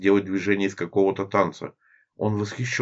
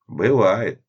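laughing, louder; 4 semitones higher, 6 dB louder than usual. Acted. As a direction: laugh the word out. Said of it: "засмеялся незнакомец".

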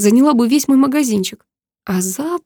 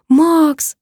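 1 breathed out; 6 semitones higher, 3 dB louder than usual. A narrator's reading. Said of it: "выдохнула я".

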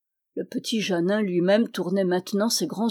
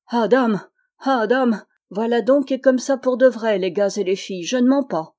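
put-on raised, emphatic old teller; storyteller swearing truth; 3 semitones higher, 5 dB louder than usual. Simon to the lads and girls, raised and insistent. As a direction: swear to them it's all true.

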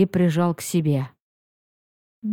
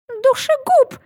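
shrill-pitched outraged yell; high indignant shout. A narrator's reading. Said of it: "поддержала Лили".

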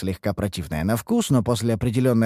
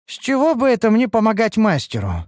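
higher-pitched, indignant question; challenging objection; 10 semitones higher, 4 dB louder than usual. Acted. Elf asked to help the master, challenging him. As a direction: push back against the order.

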